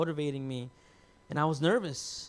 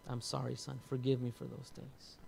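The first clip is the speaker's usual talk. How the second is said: apologetic; 4 semitones lower, 10 dB quieter than usual. Retold or imitated. Retells father's apology while hugging.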